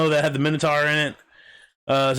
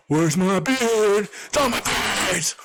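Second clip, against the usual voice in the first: slow, giggling mock line; laughing quote; 5 semitones higher, much slower than usual. Friend quoting the beard line from the show, laughing slowly. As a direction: laugh through the quote while drawling it.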